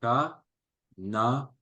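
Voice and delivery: "K" then "na", split apart with a pause; stretched syllables. Shown as a demonstration. Teacher to child, stretching the word: K ... na. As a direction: pull the word apart, one syllable at a time. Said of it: "étirer le mot en lui disant".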